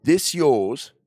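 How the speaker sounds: loud, high, put-on British voice; British accent. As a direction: do it proper in a hammed-up British accent. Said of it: "I'm gonna do it proper".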